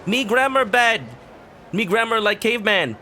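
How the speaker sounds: high dopey caveman talk. Retold or imitated. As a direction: grunt it out like a caveman. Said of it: "they're more light on the".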